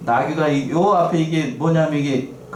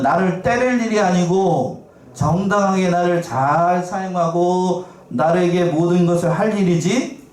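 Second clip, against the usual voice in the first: slow, raised voice scolding Balaam; donkey scolding; 3 semitones higher than usual. Acted. Preacher as donkey rebuking Balaam, slow and raised. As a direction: scold as the donkey, drawing each word out.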